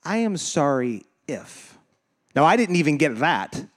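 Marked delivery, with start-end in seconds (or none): 0.0-1.8 slow, grudging apology; non-apology. Acted. Someone who never admits being wrong, grudging apology. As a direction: say sorry haltingly, hanging on "if". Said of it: "it sounds just like this".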